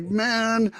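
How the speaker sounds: amazed to the bear. Retold or imitated. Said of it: "And I was like".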